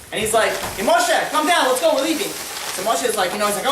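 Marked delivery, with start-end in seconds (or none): 0.7-2.3 higher, louder call into the house. Acted. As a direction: imitate a father hollering for his son to come down. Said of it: "So he calls into the house".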